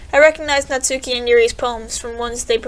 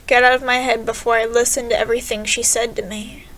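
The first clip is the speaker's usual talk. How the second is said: poem reading. Acted. Player reading Sayori's poem aloud, eerie recital. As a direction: read it like a haunted recital.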